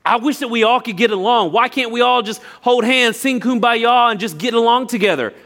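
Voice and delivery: weak plea. Shown as a demonstration. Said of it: "between just saying".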